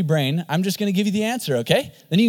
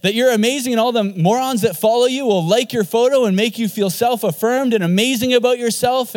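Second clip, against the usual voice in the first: mocking culture; 4 semitones higher than usual. Pastor mocking what the world sells, a scornful raised voice. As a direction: parody the world's promises with scorn.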